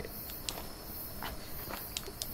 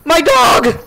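dismayed cry; 6 semitones higher, 5 dB louder than usual. Real, not acted. Discovers dog hurt.

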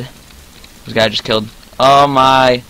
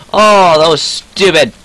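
exasperated groan; 4 semitones higher, 4 dB louder, slower than usual. Real, not acted. Berates own play, then squeals it.

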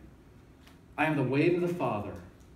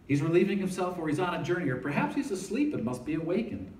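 mocking Elijah; 5 semitones higher than usual. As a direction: jeer at their silent god. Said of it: "He mocks them".

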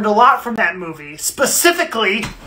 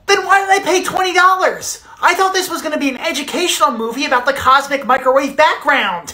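high-pitched outraged whine; indignant complaint; 4 semitones higher than usual. Acted. Nerd who paid for an educational movie, indignant. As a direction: protest like you were cheated.

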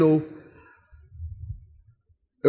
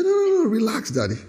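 laughing son; 4 semitones higher than usual. Retold or imitated. Son teasing father.

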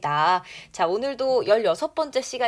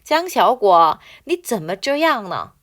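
very slow, word by word, for students to repeat; slow model reading; 4 dB louder, much slower than usual. Shown as a demonstration. Teacher reading the line slowly for students to repeat. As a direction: read it slowly so the class can follow. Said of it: "갑니다. 시작".

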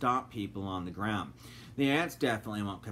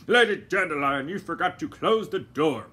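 lightly voiced gentleman; 4 semitones higher, 8 dB louder than usual. A narrator's reading. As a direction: say it unhurried, brushing her off. Doctor Fogg blames her.

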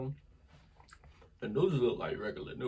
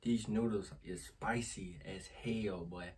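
out of breath; 3 semitones lower, 6 dB quieter, slower than usual. Real, not acted. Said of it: "trying to breathe".

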